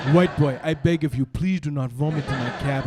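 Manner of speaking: formal begging in an imitated African accent; cab driver's African accent. African driver begging Mitchell to spare his cab, accented plea. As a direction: implore him in an African accent. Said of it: "says a big word in a funny accent".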